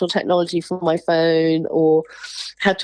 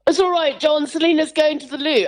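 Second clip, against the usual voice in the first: retold yell; 7 semitones higher than usual. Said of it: "somebody turned around and yelled".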